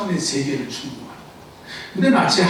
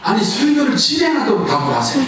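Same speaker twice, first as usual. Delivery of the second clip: calling out; 6 semitones higher than usual. Real, not acted. Pastor demands congregation answer.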